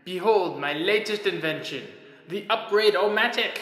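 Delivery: mad scientist. Acted. Scientist unveils invention to audience.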